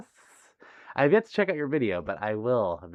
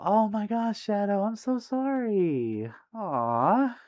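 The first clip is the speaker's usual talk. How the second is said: high, drawn-out cooing sympathy; heartfelt sympathy; 10 semitones higher, much slower than usual. Real, not acted. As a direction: coo with real pity, slowly. Consoling viewer who lost uncle.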